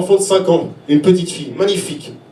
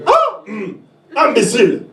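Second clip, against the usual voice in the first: imitating a father's melodious voice with a light Congolese accent; romantic, lilting dad with a slight Congolese accent; 4 semitones higher than usual. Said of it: "avec sa voix romantique, euh, mélodieuse et son léger accent congolais".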